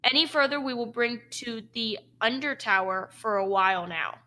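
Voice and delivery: lightly voiced orc guard. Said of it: "An orcish voice says".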